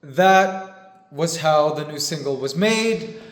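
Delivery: choked up, voice wavering; teary-eyed. Real, not acted. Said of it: "Sorry, I'm a little teary-eyed".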